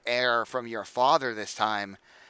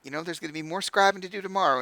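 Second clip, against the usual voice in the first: softer and higher, gently calming; soothing mother; 5 semitones higher, 3 dB quieter than usual. Acted. Mother calms her angry son, soft and soothing. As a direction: coax an upset son to breathe. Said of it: "a smile she's shown him before to try to calm him".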